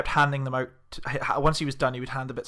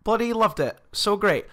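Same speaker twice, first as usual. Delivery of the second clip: higher-pitched, gushing hail to a musician; eager fan greeting; 7 semitones higher than usual. Retold or imitated. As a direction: call out like a keen gig-goer. Acting out greeting the drummer.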